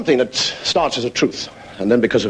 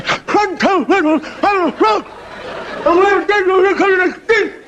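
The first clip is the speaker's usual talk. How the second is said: wide-mouthed frog calling. Acted. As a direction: draw every word out through a huge mouth. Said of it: "And goes".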